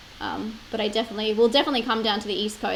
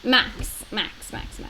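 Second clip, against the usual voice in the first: calling the dog; much slower than usual. Real, not acted.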